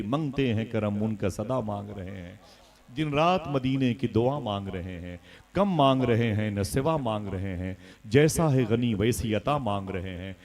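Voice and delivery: measured, rhythmic poetic delivery; devotional verse recitation. Acted. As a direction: recite each couplet line with devotional weight. (नातिया शेर की लयबद्ध अदायगी)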